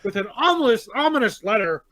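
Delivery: put-on grand old ballroom announcer; old-timey announcer. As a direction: announce each ominous thing like an old newsreel. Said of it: "My, my old-timey announcer".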